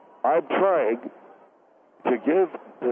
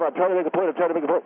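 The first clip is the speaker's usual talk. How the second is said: mocking; 4 semitones higher, much faster than usual. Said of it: "Make it already".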